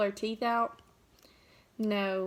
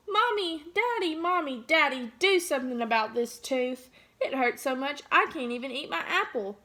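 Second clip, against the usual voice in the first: yelling. Acted. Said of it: "and yelled".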